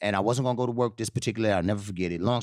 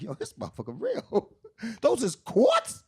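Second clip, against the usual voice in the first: laughing through the words; cracking up in disbelief; laughing at a room full of beer quarts; 11 semitones higher than usual. Retold or imitated.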